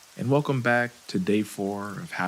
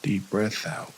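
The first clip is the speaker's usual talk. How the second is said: calm, unhurried meditation guide, leaving long pauses; guided meditation. Acted. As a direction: ease listeners gently through breathing and relaxing.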